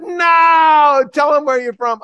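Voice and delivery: high, loud demanding yell; screaming. Retold or imitated. Heckler demands the preacher tell the crowd his origin, loud yell. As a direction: scream the order at him. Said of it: "He's screaming at me".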